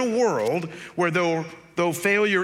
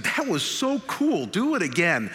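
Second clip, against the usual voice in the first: excited friend; 2 semitones higher than usual. Retold or imitated. Friend to tractor driver after the wheelie, imitated excitement. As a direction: egg them on, imitating an impressed friend.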